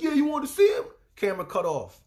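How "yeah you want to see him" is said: loud, higher taunting sneer; husband taunting. Retold or imitated. Husband taunting his wife on camera, loud sneer. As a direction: goad her loudly again. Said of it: "he's like".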